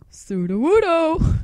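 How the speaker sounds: loud, high, drawn-out whoop; Sudowoodo impression. Fan trying again, whooping Sudowoodo. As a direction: stretch the name into a big high cry. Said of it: "I'll try again".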